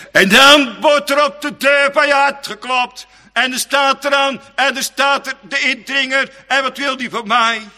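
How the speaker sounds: high, loud urgent alarm; dramatic alarm. Acted. Preacher warning the church of the intruder, high and loud. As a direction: ring out like someone pounding at the door.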